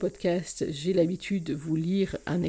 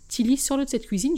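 exasperated plea; 5 semitones higher, 5 dB louder than usual. Acted. Exasperated mother pleads with daughter.

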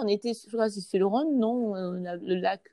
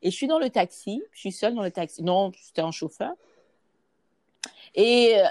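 ordinary delivery

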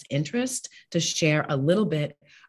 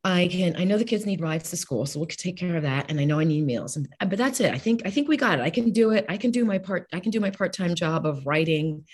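overconfident self; 2 semitones higher, faster than usual. Retold or imitated. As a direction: sound sure you can do it all alone. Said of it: "I was like".

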